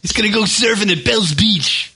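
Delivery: a stereotype Aussie line, lightly voiced; Australian accent. Host finishes the Aussie joke in a light mock Australian accent. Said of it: "and did you have to do the accent?".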